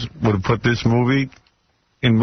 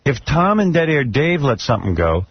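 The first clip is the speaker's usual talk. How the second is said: exasperated; 7 semitones higher than usual. Real, not acted. Host venting about censors.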